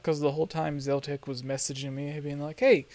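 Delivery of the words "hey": higher, louder mock urging; playful impression of a pushy invite; imitated eager summons. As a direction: beckon insistently, pitched up.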